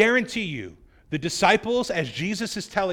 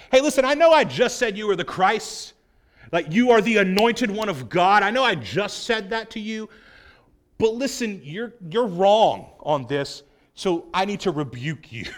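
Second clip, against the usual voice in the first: condescending, slowing at the end; patronising correction. Retold or imitated. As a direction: talk down to your teacher. Peter corrects Jesus privately.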